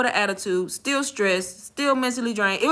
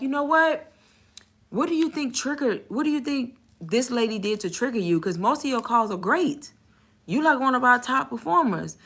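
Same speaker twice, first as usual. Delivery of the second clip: soft, raised manager voice; 2 semitones higher, 4 dB quieter than usual. Retold or imitated. Manager asking agent what triggered her, softly coaxing. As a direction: mimic a supportive boss, gently probing. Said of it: "he was like".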